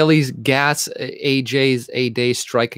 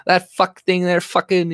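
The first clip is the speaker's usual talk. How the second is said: lightly voiced small-town local, raised pitch; higher, rambling cussing like the locals back home; imitating small-town swearers; 6 semitones higher than usual. Streamer imitating hometown folks, lightly voiced rambling swearing. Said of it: "that's how they, they talk".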